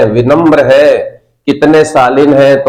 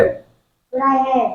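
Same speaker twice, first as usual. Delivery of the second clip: class repeating; 11 semitones higher, 10 dB quieter, much slower than usual. Real, not acted. Class repeats after teacher.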